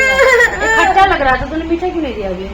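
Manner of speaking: mock sulk. Mother pretends to sulk at son.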